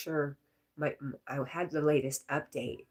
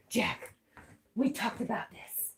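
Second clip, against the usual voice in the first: higher-pitched reproach to the dog; real dog scolding; 5 semitones higher than usual. Real, not acted. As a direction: scold a naughty pet, voice raised in pitch. Scolding her misbehaving dog.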